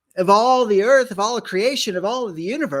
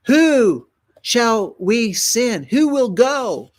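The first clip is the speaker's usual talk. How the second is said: slow, loud and high, calling out; a divine summons, drawn out and loud; booming call from heaven; 6 semitones higher, 5 dB louder, much slower than usual. Acted. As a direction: let it ring down from the throne.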